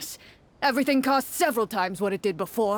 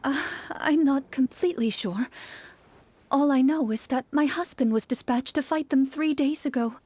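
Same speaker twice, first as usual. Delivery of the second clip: whisper; 2 semitones higher than usual. Acted. Woman speaks to traveler.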